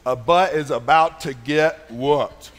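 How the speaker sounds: a hint of a stern parent, slow and low; slow warning from a dad who means it; lightly voiced stern father; serious dad voice. Shown as a demonstration. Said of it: "I've got this serious voice".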